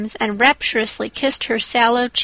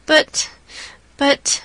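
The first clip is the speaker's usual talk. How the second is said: faltering; 3 semitones higher than usual. A narrator's reading. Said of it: "faltered Anne".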